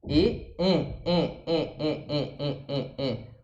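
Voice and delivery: E pulled up into the nose, mouth spread sideways; a nasal E sound that Portuguese has no letter for; nasal French E. Shown as a demonstration. Teacher showing the nasal E, spread mouth pushed into the nose. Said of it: "você puxa pro nasal, puxa pro nariz".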